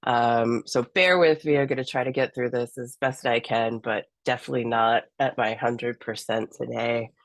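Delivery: hoarse, croaky sick voice; frog voice. Real, not acted. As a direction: rasp through it with a sore throat. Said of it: "I sound kind of like a frog".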